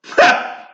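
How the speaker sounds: short high airy laugh; a quick amused burst of laughter; laughing at her own line; breathy laugh. Real, not acted.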